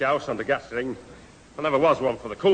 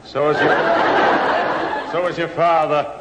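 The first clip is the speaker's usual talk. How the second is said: laughing; 2 semitones higher, 4 dB louder than usual. Real, not acted. Laughing at own joke.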